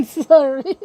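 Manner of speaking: a loud burst of laughter, then sorry; embarrassed laugh. Real, not acted. Podcaster laughing at his own accent slip. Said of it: "My accent".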